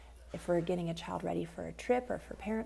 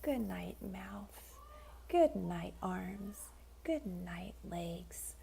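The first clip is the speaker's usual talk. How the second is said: each good night softer than the last; fading quieter; 5 dB quieter, much slower than usual. Shown as a demonstration. Parent waving good night to child's body, fading softer. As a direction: let the voice sink toward sleep. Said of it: "drop your voice and have it go a little quieter".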